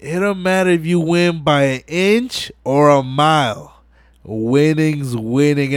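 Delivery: slow, weighty recital of the famous line; slow solemn movie quote; iconic movie line. Retold or imitated. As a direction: lay it down slow like a legend quoting himself. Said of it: "iconic line".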